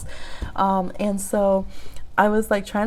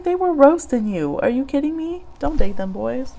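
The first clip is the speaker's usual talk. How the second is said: scolding friends; 5 semitones higher than usual. Retold or imitated. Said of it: "I was like".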